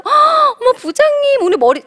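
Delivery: high-pitched, gushing coo to the boss; gushing flattery. Acted. (호들갑스러운 아부)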